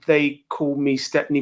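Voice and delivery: slow, drawn-out announcer-style name; slow, grand self-introduction. Real, not acted. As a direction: stretch out the nickname like an introduction. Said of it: "doesn't sound right when I say it like that".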